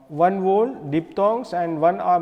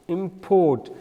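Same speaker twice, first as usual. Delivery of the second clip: imPORT with weight on port; stress on second syllable. Shown as a demonstration. Teacher repeating the verb import, stress on PORT. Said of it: "strike is on a second syllable".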